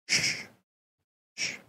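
put-on calm a frantic child; soft shushing. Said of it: "God just went".

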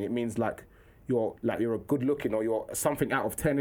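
low, serious explaining voice; formal schoolboy impression. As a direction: imitate a proper pupil defining a word. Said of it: "How comes you talk like this?".

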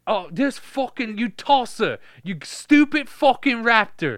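loud, high, slow shouting chef; furious chef. Acted. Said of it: "Gordon Ramsay".

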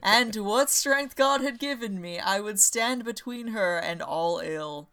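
drawn-out, hammed-up heroic declaration; grandiose vow. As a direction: swell up high on the vow, then ease down slowly. Impassioned vow in the story.

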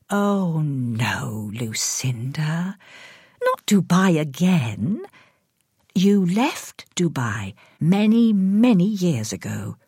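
slow, hushed, gentle; soothing carer. Acted. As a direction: carer gently correcting the confused woman. Carer soothing a confused patient.

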